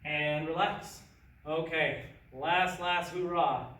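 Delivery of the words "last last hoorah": gung ho. Real, not acted. Coach rallying the class.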